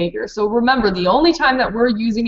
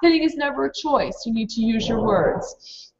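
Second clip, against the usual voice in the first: firm stop. Shown as a demonstration. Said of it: "I would use the sign".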